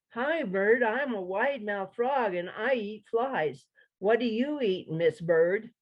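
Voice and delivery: a hint of a cheerful frog announcing himself; eager frog. Frog greets bird.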